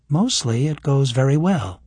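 lightly voiced young woman; Kira's voice. Voices Kira.

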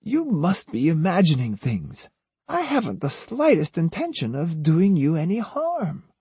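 put-on high-pitched, falsely sincere old woman; earnestly poignant pleading. A narrator's reading. Osugi coaxes the terrified Otsu, feigning earnest hurt. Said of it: "in an earnestly poignant tone".

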